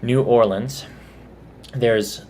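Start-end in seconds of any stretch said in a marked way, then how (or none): 0.0-0.9 "New Orleans" as "new OR-lunz"; three syllables. Shown as a demonstration. Repeating her favorite for viewers, "New Orleans" as "new OR-lunz". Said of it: "three syllables".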